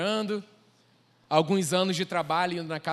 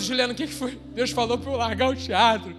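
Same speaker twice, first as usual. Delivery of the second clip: high, loud, half-mock crying voice; retold sobbing; 5 semitones higher, 7 dB louder than usual. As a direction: whine it out like a sobbing kid. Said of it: "e eu chorando". (choro exagerado e imitado, agudo e alto)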